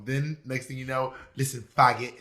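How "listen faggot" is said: British neighbor turning insulting; British accent. Acted. Host playing the rude London neighbor, British accent. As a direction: put on a comic British accent. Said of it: "your British accent".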